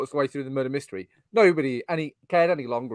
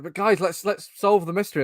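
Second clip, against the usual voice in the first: lightly voiced earnest pleader, higher; killjoy party guest; 6 semitones higher than usual. Mimicking the one guest urging drunk friends on, killjoy pleading. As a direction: plead gently with the group, imitating. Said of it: "You're not having fun, right?".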